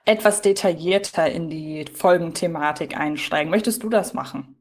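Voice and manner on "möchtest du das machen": usual speaking voice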